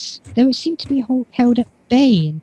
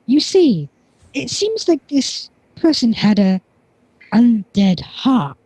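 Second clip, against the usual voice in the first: slow doctor voice; 2 semitones higher, slower than usual. Acted. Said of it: "he goes".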